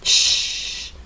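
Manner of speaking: voiceless hissed "sh"; sh sound. Shown as a demonstration. Teacher linking the sh of spreche and Deutsch. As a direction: hiss "sh" quietly. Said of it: "El sonido que hemos tenido".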